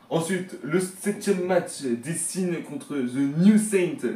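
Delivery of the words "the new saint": clumsy, drawn-out English accent; attempted English accent. Real, not acted. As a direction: say the name slowly in a shaky attempt at English. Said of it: "l'accent, il était excellent". (accent anglais approximatif)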